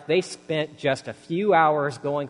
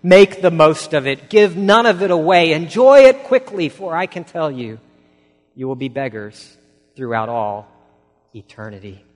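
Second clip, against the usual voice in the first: impassioned pleading; 3 semitones higher, 12 dB louder than usual. Retold or imitated. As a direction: preach it bitterly, building to a cry, then drop. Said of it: "he pleaded".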